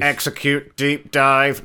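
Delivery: slow robot monotone voice. Pretend. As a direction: say it like a stiff robot. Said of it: "Do a robot voice".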